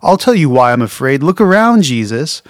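mock-indignant outburst; sarcastic retort. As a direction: snap back, exasperated and pointed. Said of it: "I would have been like".

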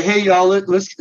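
lightly put-on Southern accent; a touch of friendly Southern accent. Woman rounding up her friends, light Southern accent. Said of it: "I'm using the Southern accent".

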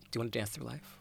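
soft, high little plea; coaxing. Retold or imitated. Acting out a coaxing request to castmate.

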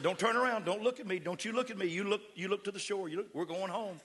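steady him with firm commands. Retold or imitated. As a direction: pastor ordering the man to the shore. Pastor commanding the man.

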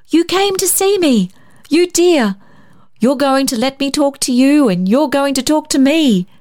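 put-on high, delighted greeting to a child; joyful welcome. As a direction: gush with joy over the little boy. Rosemary greets David joyfully.

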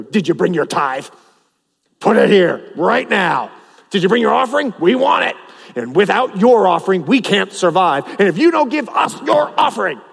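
hammed-up shakedown at the door; mock greedy pastor. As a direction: pastor pretends to shake down churchgoers. Pastor mock-demands tithe.

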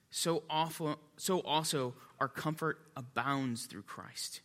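solemn low scripture reading. Acted. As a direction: read the verse aloud, hushed and measured. Reads scripture aloud.

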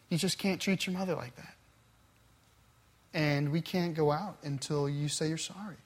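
a father talking his daughter down, kindly; gentle tone. Retold or imitated. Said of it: "in the most gentle tone".

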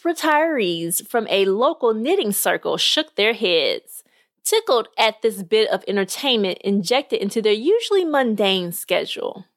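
lively storyteller reading a podcast tale; measured read-aloud narration; story narration. Acted. Reads a short story aloud.

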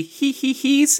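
high mimicked hee-hees; mock tittering. Cohost asking about titters, mimicking them high. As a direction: squeeze in a pretend titter.

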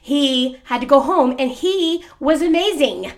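keyed-up, eager telling; excited, with emphatic lifts in pitch; real excitement. Real, not acted. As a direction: gush about a favorite contestant. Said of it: "You are so excited about this".

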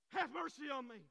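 loud, high plea in one run; acted insistent cry. Blind man defying those who hushed him, acted insistent cry. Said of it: "he cried out all the more".

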